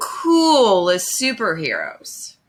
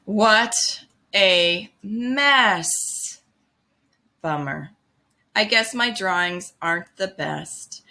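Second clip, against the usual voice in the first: disappointed Pete. Acted. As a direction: let the letdown sink in. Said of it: "Pete said".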